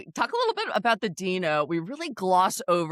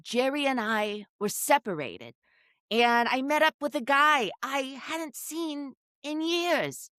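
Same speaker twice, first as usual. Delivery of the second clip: mock excited Rula; 7 semitones higher than usual. Imitating Rula's excited story.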